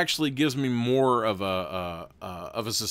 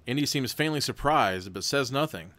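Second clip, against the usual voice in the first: even, steady storybook read; story narration; 3 semitones higher than usual. A narrator's reading. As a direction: read the gamebook aloud to the viewers. Reads gamebook narration.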